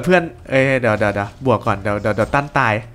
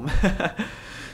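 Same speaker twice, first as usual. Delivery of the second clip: short laugh; 4 semitones higher, 6 dB quieter than usual. Real, not acted. Caster laughs mid commentary.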